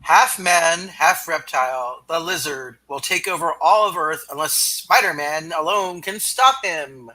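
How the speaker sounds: dramatic trailer announcer; big comic-book intro read. Acted.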